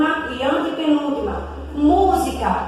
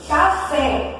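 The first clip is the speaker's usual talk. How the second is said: café with weight on the final "fé"; teacher marking the last syllable of "café"; stress on last syllable. Shown as a demonstration. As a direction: land on the end of "café". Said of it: "a última".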